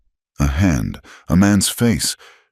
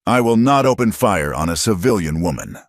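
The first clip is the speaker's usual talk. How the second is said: tight with frustration; 4 semitones higher than usual. Acted. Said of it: "his voice tight with frustration".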